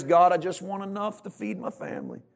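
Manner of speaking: high, pleading prayer, hammed up; selfish prayer. Preacher mimicking a selfish prayer to God, pleading. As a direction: beg God with a loud, high opening. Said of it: "A selfish prayer is".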